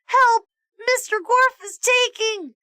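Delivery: high, loud panicked yell; shouting for help. Acted. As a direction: cry out for help. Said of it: "shouted Allison".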